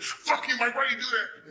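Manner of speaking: high, loud imitation of an angry girl; mock outraged yell. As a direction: play the offended girl yelling at him. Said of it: "it wasn't like she said".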